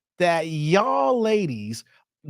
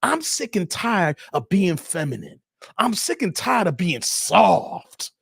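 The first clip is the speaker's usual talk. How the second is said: mock dude; 6 semitones lower than usual. Host imitating man asking fellas for help, lightly voiced. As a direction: lower mock dude's plea. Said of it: "Be like".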